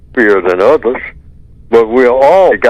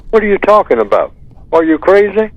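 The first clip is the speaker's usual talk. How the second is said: higher, fast, mock-incredulous brush-off; indignant denial; 7 semitones higher than usual. White supremacist mocking the accuser, indignant and fast. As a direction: act baffled and offended, quick and high. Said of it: "And they will say".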